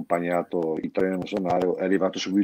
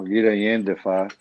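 Brescian dialect. Shown as a demonstration. Musician quips about big stars in Brescian dialect. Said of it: "te lo dico in dialetto bresciano".

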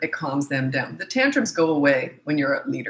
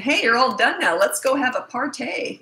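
mock celebration; 6 semitones higher than usual. Parent wrongly celebrating the end of a tantrum, hammed-up cheer. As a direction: overdo the joy like it's a party. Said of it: "celebrating it".

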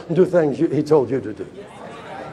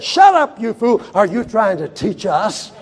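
angry rabbis; 3 semitones higher than usual. Retold or imitated. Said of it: "the old rabbis got so mad".

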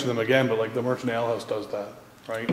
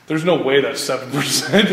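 mock disbelief; 4 dB louder than usual. Acted drinker disputing the strength.

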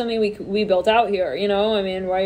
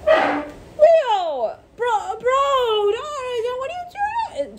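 very high, whiny, crying-like bro plea; mock desperate plea; much slower than usual. A shocked friend begs Leo, hammed-up crying plea. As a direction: wail at Leo like a betrayed buddy. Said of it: "someone's looking at you like".

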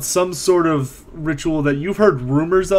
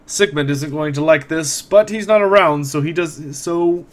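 put-on smug old caretaker, amused; lightly voiced old man, smirking; smirking elderly man; 3 semitones higher than usual. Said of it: "looks up at you with somewhat of a smirk and says".

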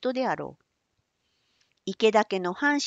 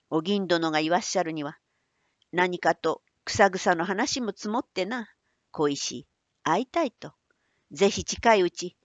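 put-on old man voice. Manbei relates message.

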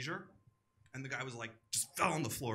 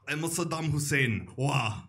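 louder put-on voice, lightly done; a hint of a dictator caricature; Saddam Hussein; 8 dB louder, slower than usual. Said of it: "name another celebrity".

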